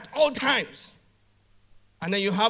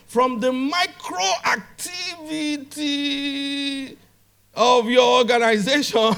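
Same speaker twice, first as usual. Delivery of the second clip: drawn-out climax; 5 semitones higher, 5 dB louder, slower than usual. Real, not acted. Theatrical climax of a motivational rant.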